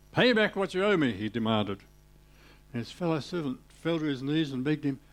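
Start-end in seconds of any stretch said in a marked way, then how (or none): 0.1-1.1 demanding. Acted. Servant demanding payment.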